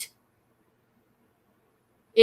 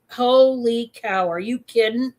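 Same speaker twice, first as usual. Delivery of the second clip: excited; 3 dB louder than usual. Retold or imitated. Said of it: "I got all giddy".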